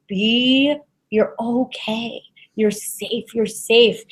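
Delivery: calm someone who is scared; reassuring. Acted. Psychic soothing a nervous client, gently reassuring. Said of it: "I'm being empathic right now".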